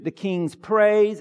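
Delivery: slow emphatic sermon point; preacher stating a point for notes; slow, deliberate point. Real, not acted. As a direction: say it slowly for note-takers. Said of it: "give them to you".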